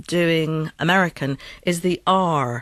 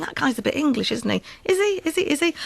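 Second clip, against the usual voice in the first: puzzled questioning; 8 semitones higher than usual. Retold or imitated. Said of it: "I kept thinking".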